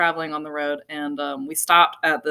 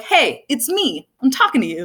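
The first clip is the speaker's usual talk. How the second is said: voice of the bug; 7 semitones higher than usual. Retold or imitated. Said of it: "And it's like".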